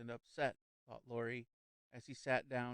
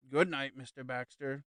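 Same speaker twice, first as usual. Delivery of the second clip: serene; 6 dB louder than usual. A narrator's reading. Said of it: "said the medium serenely".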